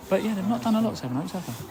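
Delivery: whisper. Real, not acted. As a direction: whisper it so the subs won't hear. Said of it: "I have to whisper 'cause their subs have just walked past".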